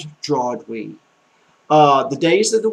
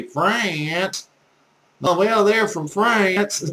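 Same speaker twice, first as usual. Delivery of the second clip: drawled Southern "France"; Southern accent; 4 semitones higher, much slower than usual. Shown as a demonstration. French teacher mocking Southern learners' speech, Southern accent. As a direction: draw out France with a Southern twang. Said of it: "that Southern accent has made us look so crazy".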